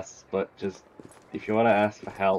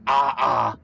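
mock Italian accent; 2 semitones higher, 4 dB louder than usual. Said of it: "I end every single, ah, end sentence with".

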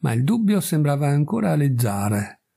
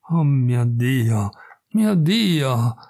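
lamento disperato; much slower than usual. Acted. Donna disperata si prostra.

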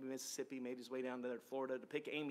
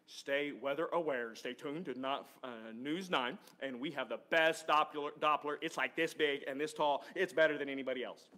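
lightly voiced TV weatherman hype; a hint of a local forecaster bragging about his radar, a bit louder; David Payne impression; 4 dB louder than usual. Pastor jokingly mimics the TV weatherman to the congregation, lightly voiced. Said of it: "gonna do my best David Payne impression".

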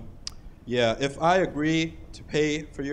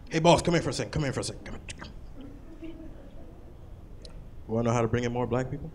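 conspiratorial; 2 semitones lower, 8 dB quieter, much faster than usual. Retold or imitated. Coworker whispering to boss.

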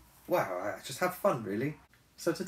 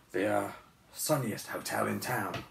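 deep bear voice. Acted. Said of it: "trying to sound cheerful".

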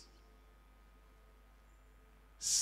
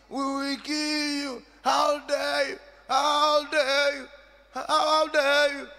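slow, raised mock menace; threatening chiefs; 7 semitones higher, 6 dB louder, slower than usual. Preacher voicing the chiefs threatening her, mock menace. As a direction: voice angry elders threatening her. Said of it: "Some of the Indians said".

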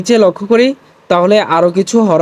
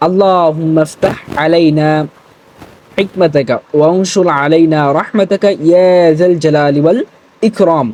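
recited prayer. Shown as a demonstration. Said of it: "সবাই আমার সাথে সাথে বলার চেষ্টা করুন".

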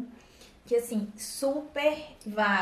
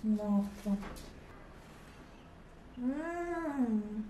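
talking while chewing pastry; muffled through food; mouth full, chewing; 8 dB quieter, much slower than usual. Real, not acted. Seen 1: bit pastry at -4, closed mouth chewing, holds it throughout.

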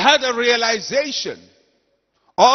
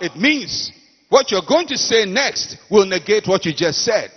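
usual speaking voice

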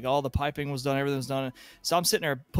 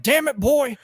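much higher, louder hammed-up yell; mock angry yell; 12 semitones higher, 10 dB louder, slower than usual. Grumpy plumber cursing at the green helper, mock yell. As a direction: blow up at the boy in mock rage.

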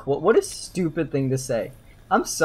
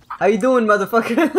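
louder, higher brash street greeting; mock Jersey tough guy; 6 semitones higher, 4 dB louder than usual. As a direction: belt it like a cocky New Jersey guy.

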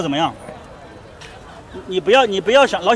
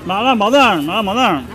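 hawking call; 5 dB louder, slower than usual. Pretend. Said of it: "吆喝起来".

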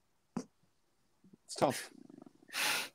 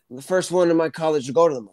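Joe Biden impression; faster than usual. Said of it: "practicing my Joe Biden".

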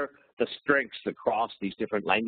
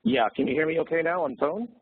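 speaking over the phone; phone line; 5 semitones higher than usual. Real, not acted. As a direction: sound like a phone call. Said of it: "the volume's not as good".

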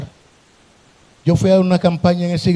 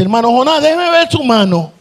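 higher voice for the sister; sister's request; 6 semitones higher than usual. Retold or imitated. Sister asking the preacher to see his hand, voiced higher. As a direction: raise the voice to ask like her. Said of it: "Me dice".

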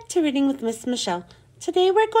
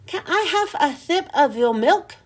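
mouth full; 2 semitones higher than usual. Acted. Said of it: "her mouth was full of peanut butter".

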